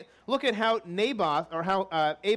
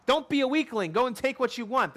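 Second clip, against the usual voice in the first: mock goading; 4 semitones higher than usual. Preacher paraphrases queen goading king.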